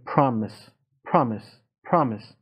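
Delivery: پرامیس with an open American A; American pronunciation. Shown as a demonstration. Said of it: "مثلاً این لغت تلفظ آمریکاییش".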